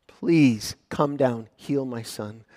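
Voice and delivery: gentle plea. Acted. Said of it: "He's pleading with Jesus".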